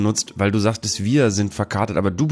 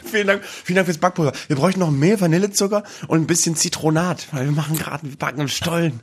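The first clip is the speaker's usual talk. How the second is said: small, softer cheeky ant voice; 2 semitones higher, 3 dB quieter than usual. Pretend. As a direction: play the polite little ants. Voicing the ants thanking him.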